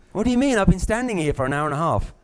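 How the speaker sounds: mock indignant friend kept waiting an hour; annoyed outburst. Friend kept waiting at the cinema, exasperated and sharp.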